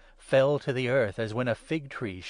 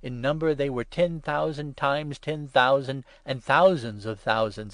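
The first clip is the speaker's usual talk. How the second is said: ordinary delivery, nothing marked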